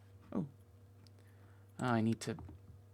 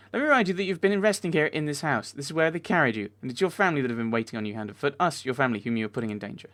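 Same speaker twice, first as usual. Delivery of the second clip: reproachful wife; 3 semitones higher, 5 dB louder than usual. Acted. Reads wife's reproach in game dialogue.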